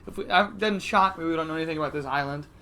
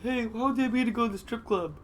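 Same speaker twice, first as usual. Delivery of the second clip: put-on girlish voice; 4 semitones higher than usual. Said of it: "They heard my girlish voice".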